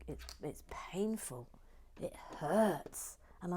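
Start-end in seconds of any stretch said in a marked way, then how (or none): 0.1-1.5 pained whisper. Real, not acted. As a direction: whisper it, hurting. Painful wound, woke at four.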